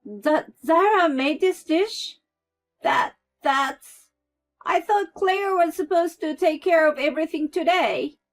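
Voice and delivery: high, stammering panic; flustered mother-in-law. A narrator's reading. Mother-in-law realises she ruined Zara's dish, flustered. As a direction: scramble for an excuse.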